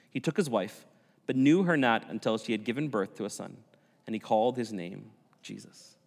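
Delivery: measured, emphatic Bible reading; scripture reading. A narrator's reading. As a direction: read the scripture out to the congregation. Reads scripture aloud.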